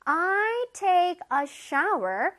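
very slow, word-by-word teacher's model; slow modelling. Shown as a demonstration. Teacher reads an example for children, very slowly. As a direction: stretch each word out clearly for learners.

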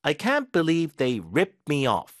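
very slow, "can't" stressed; slow model sentence. Shown as a demonstration. Teacher modelling the rip-off sentence slowly. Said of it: "바가지를 씌우다".

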